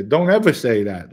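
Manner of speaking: loud retold scolding; ripping into him. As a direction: act out a firm telling-off. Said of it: "And he ripped in".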